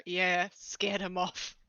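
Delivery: slow sarcastic scoff. Acted. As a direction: scoff it out, dragging the words. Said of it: "Austin's gonna scoff and go".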